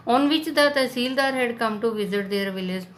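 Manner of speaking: slow, deliberate read-aloud of the English text; unhurried storybook narration; slow story reading. A narrator's reading. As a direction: read it out slowly for the class. Reads English story text slowly.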